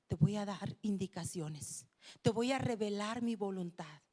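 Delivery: lightly voiced calm authority; God instructing.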